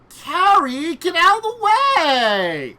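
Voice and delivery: loud high warning shout. Acted. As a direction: yell it across the battlefield. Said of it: "and Winter speak".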